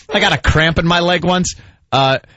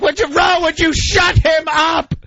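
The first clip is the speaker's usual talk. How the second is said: higher, slow pleading mom; mother defending crying son; mock mother voice; slower than usual. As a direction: imitate mother calming father. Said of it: "And he's like".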